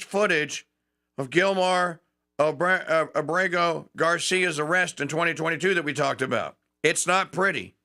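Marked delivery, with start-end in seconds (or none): none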